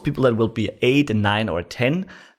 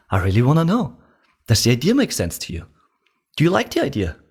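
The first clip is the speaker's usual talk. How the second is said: sincere curious questions; curious tonality; 3 semitones higher, faster than usual. Shown as a demonstration. Salesman asking a prospect, curious. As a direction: ask as if you truly want to know. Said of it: "Say it with me".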